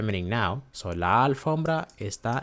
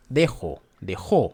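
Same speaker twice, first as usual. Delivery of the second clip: dejó punched on the final "JÓ"; teacher's demo of dejó, stress at the end; accented O. Shown as a demonstration. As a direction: hit the last syllable of dejó. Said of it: "Always remember to accent that".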